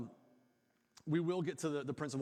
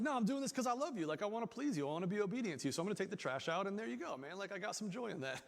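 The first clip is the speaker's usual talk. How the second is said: mock cheerful kid; 4 semitones higher than usual. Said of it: "gladly, you know, like, skipping along".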